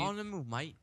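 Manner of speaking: British mate-speak, teasing; mock British accent. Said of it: "make fun of my British accent".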